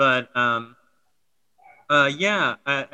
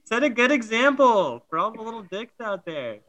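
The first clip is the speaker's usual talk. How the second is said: laughing; 6 semitones higher than usual. Real, not acted. Laughing, high voice.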